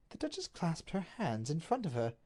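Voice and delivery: plain reading voice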